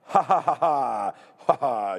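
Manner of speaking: laughing. Real, not acted. Laughing at a super chat.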